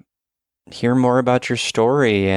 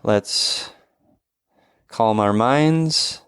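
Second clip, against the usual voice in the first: guided breathing. Acted. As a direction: lead the breaths gently. Leads a breathing exercise.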